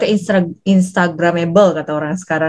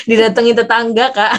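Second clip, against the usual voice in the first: laughing; 2 semitones higher than usual. Real, not acted. Joking about screaming at home, laughs around it.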